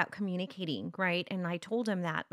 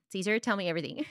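laughing nosy mom; faster than usual. Retold or imitated. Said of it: "resist the temptation of saying".

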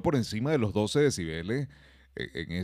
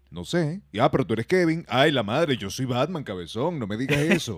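higher, lightly voiced offended whine; offended Batman; 4 semitones higher, 4 dB louder than usual. Kevin as a caught Batman, offended. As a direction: sound caught and huffy. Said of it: "Un Batman todo ofendido".

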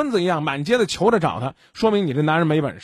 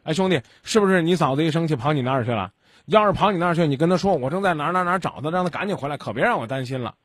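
polite and calm. Shown as a demonstration. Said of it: "你就好声好气儿地说".

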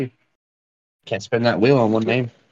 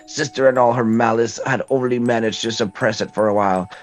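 put-on old lady voice. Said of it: "How'd y'all like my old lady voice?".

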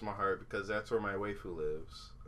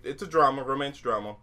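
normal talking voice

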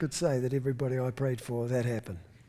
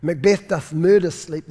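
Shakespeare line, declaimed a little louder; quoting Macbeth; 6 dB louder than usual. Retold or imitated. Preacher quotes Macbeth to the congregation, mildly theatrical. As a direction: read it like a stage line, lifted. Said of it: "Macbeth said it".

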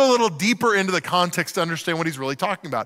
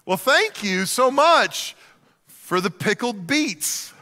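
slow, drawn-out forced thanks; fake gratitude; much slower than usual. Guest forcing thanks for pickled beets, mock-polite. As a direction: hide your dislike behind thanks. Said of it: "you're like".

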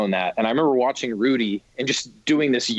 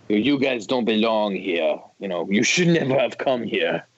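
put-on German accent. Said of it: "that's a terrible German accent".

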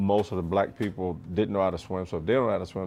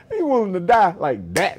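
drill instructor; 10 semitones higher, 5 dB louder than usual. Retold or imitated. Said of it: "And they go".

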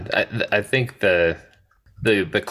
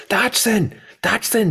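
mock Nedry call. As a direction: shout Dodgson across the restaurant in a high put-on voice. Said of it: "and he goes".

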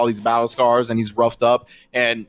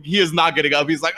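usual speaking voice

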